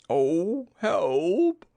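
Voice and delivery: loud, high cry for help; stuck bear calling out in alarm; hammed-up storybook plea for help. Pooh stuck in the hole.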